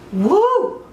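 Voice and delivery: high swooping woo; excited whoop. Acted. Bowled over by his cologne, excited whoop. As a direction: let out a swooning high whoop. Acted swooning reaction to the client.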